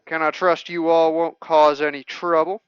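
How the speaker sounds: wary local with a Texan twang; light Texan accent on a townsperson. Acted. Gatekeeper questions the visitors, in a Texan accent. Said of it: "these people need Texan accents".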